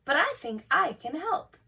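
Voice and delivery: bright. Acted. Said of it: "she said brightly".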